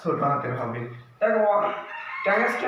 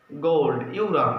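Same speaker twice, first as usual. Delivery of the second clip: slow teaching repeat; 5 semitones lower, slower than usual. Shown as a demonstration. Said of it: "উচ্চারণ হচ্ছে ইউরাম".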